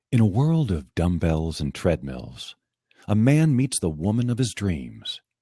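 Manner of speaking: romantic, tender, intimate, close, loving delivery. Narrating a story as he requested, in a romantic, intimate voice. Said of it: "He said romantic, intimate voice, so that's what he's going to get".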